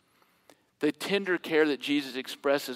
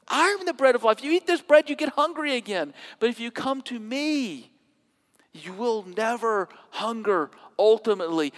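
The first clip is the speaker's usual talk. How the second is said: a lightly voiced Jesus, raised and urgent; voicing Jesus; 6 semitones higher than usual. Jesus pleading with the crowd, lightly voiced and raised. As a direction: preach Jesus' words high and pressing.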